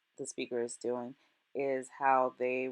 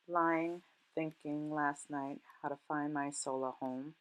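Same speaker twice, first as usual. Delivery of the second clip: measured, softer poetry reading; poem recitation; 3 dB quieter than usual. Acted. Teacher reads Maya Angelou's poem to students, measured poem recitation. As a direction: recite it with pauses between phrases.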